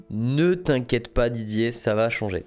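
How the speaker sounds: slow, drawn-out reassurance; slow right down to calm a doubter; playfully measured, word by word; mock reassurance. Playfully reassuring the imagined complainer.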